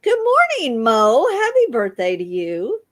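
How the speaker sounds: high, bright call of good morning; cheerful birthday greeting. Real, not acted. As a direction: greet him loudly for his birthday.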